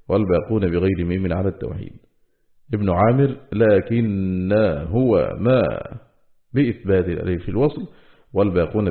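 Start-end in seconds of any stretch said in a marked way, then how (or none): 3.5-5.6 slow tajweed with long held vowels; measured recital of scripture; Quranic recitation. Shown as a demonstration. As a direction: stretch out the verse words as in recitation. Quranic words recited within lesson.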